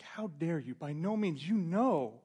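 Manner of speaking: rising loud indignant refusal; indignant protest. Acted. Peter refusing God's command, loud and offended. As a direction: push back hard, offended. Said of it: "almost like".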